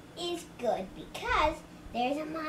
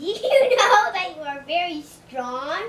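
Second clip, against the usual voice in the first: amazed; 8 dB louder than usual. Acted. Grover amazed at reader's strength.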